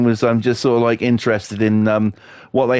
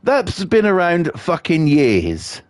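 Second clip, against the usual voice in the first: scornful retort; 4 semitones higher, slower than usual. Retold or imitated. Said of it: "And I was like".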